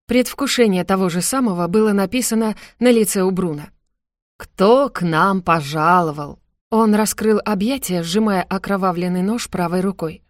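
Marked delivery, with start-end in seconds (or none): 4.4-6.4 slow, mocking villain voice; mocking villain welcome. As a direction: drawl the welcome with menace. Villain greets arriving enemy.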